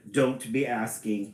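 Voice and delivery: lightly Irish storybook leprechaun; attempted Irish accent. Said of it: "Read it in an Irish accent".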